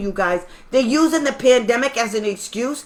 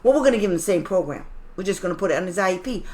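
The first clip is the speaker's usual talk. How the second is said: mocking the school; 4 semitones lower, 4 dB quieter, faster than usual. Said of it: "these idiots have actually said".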